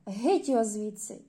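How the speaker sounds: loud heckle. Acted. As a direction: drive him out with a yell. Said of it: "Тоді хтось закричав".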